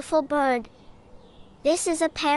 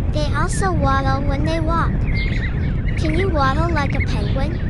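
projected, louder teaching voice; 5 dB louder than usual. Acted. Teacher presents icy penguins to children, louder. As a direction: call out brightly to the little explorers.

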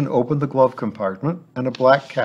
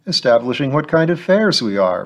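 cheerfully; 4 semitones higher, 4 dB louder than usual. Acted. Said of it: "Fletcher answered cheerfully".

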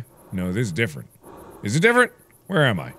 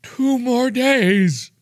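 high shocked cry; shocked yelp; 11 semitones higher, 4 dB louder, much slower than usual. Acted. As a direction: yelp it out in disbelief. Shocked reaction in game.

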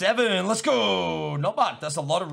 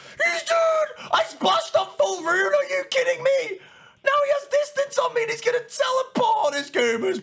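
furious shouting. Real, not acted. Streamer raging at chat as the kill escapes. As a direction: rage at the game.

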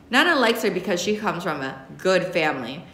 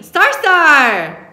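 put-on high, loud happy child's cry; excited squeal; 9 semitones higher, 11 dB louder than usual. Little cousin running to Star, excited. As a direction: squeal her name running over. Toddler runs to her cousin.

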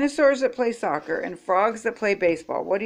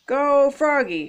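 hollered cheer; 6 semitones higher, 3 dB louder than usual. A narrator's reading. Mom cheers Froggy at bat, hollering. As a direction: holler encouragement from the stands. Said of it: "hollered Mom".

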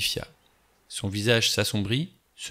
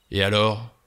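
impatient; 4 dB louder than usual. Acted. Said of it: "avec impatience".

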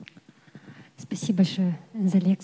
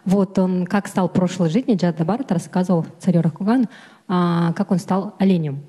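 raised voice so she hears; louder. Real, not acted. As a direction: speak up for someone hard of hearing. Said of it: "Громче, да?".

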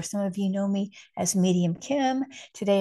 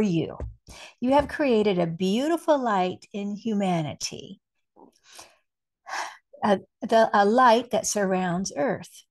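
measured, deliberate spiritual message reading; spoken like a message from Spirit; channeled message reading. Acted. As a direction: read it out with weight, pausing between phrases.

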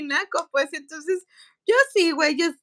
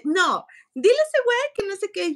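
mocking her brother, higher pitched; brother's voice; 6 semitones higher than usual. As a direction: imitate the bossy brother lightly. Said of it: "y mi hermano así de". (imitando al hermano, mandón y burlón)

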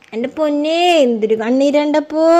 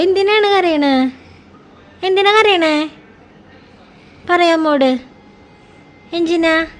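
coaxing; 3 semitones higher than usual. Real, not acted. Mother coaxing crying toddler.

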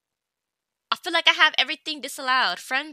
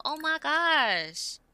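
exasperated; 5 dB quieter, much slower than usual. Real, not acted. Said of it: "so annoyed with Sims".

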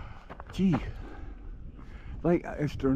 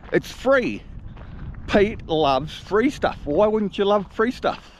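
catchphrase; 7 semitones higher, slower than usual. Shown as a demonstration. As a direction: announce your motto with gusto. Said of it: "You know what I always say?".

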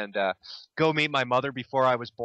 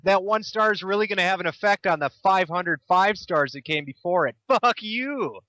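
hammed-up petulant outburst, pitch jumping up; mock angry rant; 3 semitones higher than usual. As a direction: imitate an indignant online ranter. Mock rant voicing video maker.

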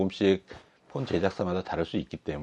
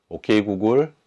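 talking to voice assistant; 3 semitones higher, 6 dB louder than usual. Real, not acted. Summoning the assistant again.

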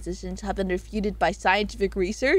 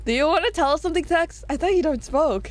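quick, giggling repeat of the question; laughing tease; 4 semitones higher than usual. Real, not acted. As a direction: tease him through a laugh. Teasing Tex about smoking.

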